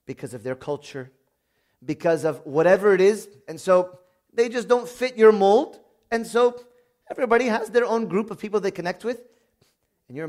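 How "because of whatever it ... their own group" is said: emphatic preaching. Real, not acted. Preacher to congregation, rising emphatic call. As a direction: drive the point home to the congregation.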